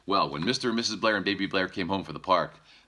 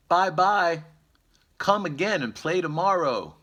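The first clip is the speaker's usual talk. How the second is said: much higher, louder happy call; calling out the window; 12 semitones higher, 8 dB louder than usual. Acted. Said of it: "baby Blair shouts out the window".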